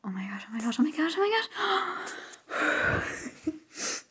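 whispered chant rising at the end; overwhelmed whisper. Real, not acted. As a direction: chant it under your breath, overwhelmed.

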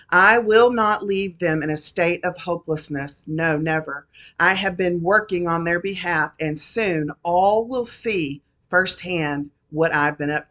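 solemn prophecy spoken in God's voice; prophetic word. Acted. Prophesying to the congregation as the Lord, solemn proclamation. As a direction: proclaim it as the Lord speaking to his people.

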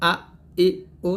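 hard glottal onset on আ, ই, উ; firm hamza articulation. Shown as a demonstration. Teacher demonstrates hamza from the throat, saying আ, ই, উ firmly. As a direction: start আ, ই, উ firmly from the throat, each separate. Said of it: "শক্ত করে".

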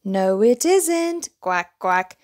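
ducks' voice. A narrator's reading. Ducks correcting little bear as they swim by, slow and quacky. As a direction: answer like fussy ducks.

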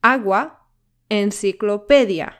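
"Agua, enciclopedia" punched on A and PE; penultimate stress. Shown as a demonstration. Teacher showing where stress falls, penultimate syllable punched. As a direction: hit the second-to-last syllable in "Agua" and "enciclopedia". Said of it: "the stress syllable on the penultimate".

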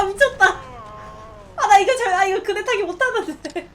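usual speaking voice

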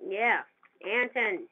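mock threat. Real, not acted. Threatening enemy tank playfully.

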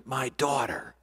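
put-on soft, low and intimate, as God calling a child; hushed divine voice, gently addressing each listener; God's whispering voice. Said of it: "voice whispering".

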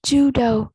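"judo" with the final o said as a clear long O; teacher's model "judo", final OH; O sound in judo. Shown as a demonstration. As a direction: say "judo" carefully, ending on an OH sound. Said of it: "Âm này là âm O".

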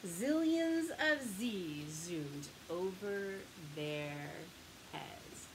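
fading bedtime voice; hushed. A narrator's reading. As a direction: let it drift off to sleep. Story's sleepy ending.

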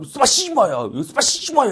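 high-pitched repeated fake-Russian exclamation; mock Russian outburst. Russia telling Japan off, mock angry outburst. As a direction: fire it off twice like comic cursing. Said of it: "이러면서 얘기를 했대".

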